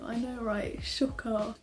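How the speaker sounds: dry mock surprise; sarcastic. Real, not acted. Vlogger joking to viewers about her school, sarcastic. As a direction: say it with obvious sarcasm. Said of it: "that's me being sarcastic".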